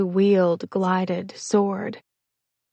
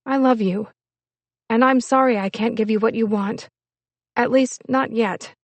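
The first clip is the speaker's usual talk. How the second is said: earnest, slightly raised woman's voice; lightly voiced apologetic woman; 3 semitones higher, 4 dB louder than usual. Woman apologizing to the man she loves, mildly pleading. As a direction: apologize with understated feeling.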